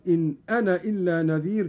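أنا cut short to "ana", running quickly into إلا; alif dropped. Shown as a demonstration. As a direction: say أنا with a short final a, no madd. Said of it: "وله الحذف أيضًا". (حذف ألف «أنا» وصلاً كحفص)

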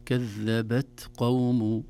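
slow "كذبت قوم" with a puff of air on the ت; breathy release on ت. Shown as a demonstration. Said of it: "الهمس في حرف التاء الساكنة". ("كذبت قوم" بهمس التاء الساكنة)

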